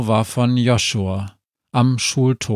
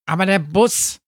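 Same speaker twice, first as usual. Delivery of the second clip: high, excitable talking-dog voice; barking dog; 9 semitones higher than usual. A narrator's reading. Sami the dog protests to the dwarf, barking. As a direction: yap it out in a much higher voice. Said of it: "bellte Sami".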